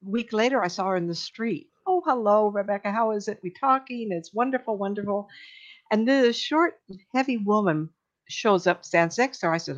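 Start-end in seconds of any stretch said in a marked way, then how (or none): 1.9-5.3 imitated friendly greeting. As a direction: play a gushing neighbor saying hello. Retold friendly street greeting.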